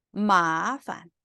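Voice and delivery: 마판 with long 마, short light 판; neutral tone ending. Shown as a demonstration. Teacher showing students a neutral tone, 판 short and weak. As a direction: stretch 마, then drop 판 short and weak. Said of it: "밑에 단어까지 읽을게요".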